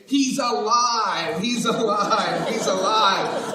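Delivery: slow, drawn-out shout; joyful proclamation. Retold or imitated. Mary calling out the news, slow and drawn out. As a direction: announce it slowly. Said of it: "She's saying".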